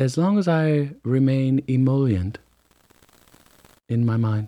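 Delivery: gentle, lulling, soothing, calm voice. Saying a word you're trying to remember, as suggested, soothing voice. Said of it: "say emollient in a soothing voice".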